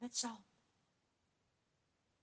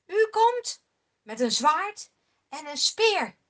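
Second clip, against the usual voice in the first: defiant proclamation; 7 dB louder than usual. Acted. David daagt Goliath uit.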